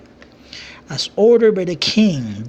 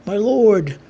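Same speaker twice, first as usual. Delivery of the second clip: pleading; 4 semitones higher than usual. A narrator's reading. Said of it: "still pleading to the king".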